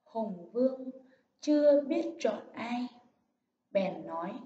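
measured, dignified story reading; storybook opening read with dignity; unhurried, solemn. Shown as a demonstration. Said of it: "đọc với giọng thong thả, trang trọng".

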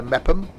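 Mepham said as two syllables, MEP-um; guessed pronunciation. Shown as a demonstration. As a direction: swallow the ham in Mepham to -um. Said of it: "I'm guessing it's pronounced Mepham".

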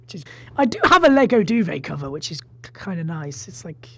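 muffled, recorded under a blanket. Real, not acted. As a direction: speak from under a duvet. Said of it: "I've put a blanket over my head".

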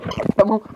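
short, light laugh. Real, not acted. Vlogger boasting about the drawing, short laugh. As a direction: break into a brief chuckle.

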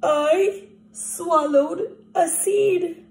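mock panic with a half-laugh; panicked. Crocodile panics, laughing cry.

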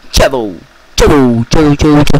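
calling out. Acted. Calling out to the player.

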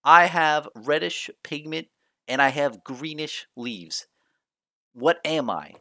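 a game studio teasing fans with a riddle. Pretend. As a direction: pose it like a playful puzzle master. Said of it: "You know what they say?".

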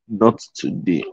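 muttered softly through a yawn. Real, not acted. Speaker caught yawning mid-talk, mumbles it through the yawn. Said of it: "Why am I yawning today again?".

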